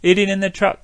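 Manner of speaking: eat it in the truck with "the" turned into an N sound; in the truck, the TH dropped to N. Shown as a demonstration. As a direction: blend the into the N. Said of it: "N 발음으로 할 수도".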